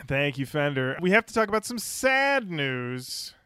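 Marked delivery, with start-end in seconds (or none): 1.0-3.3 abrupt sad news. Acted. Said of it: "I like the abrupt sad news".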